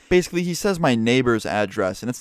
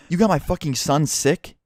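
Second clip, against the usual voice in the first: half-hearted yelled accusation; mock angry scream; 5 semitones higher than usual. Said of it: "Everything this dude said was just a straight up scream".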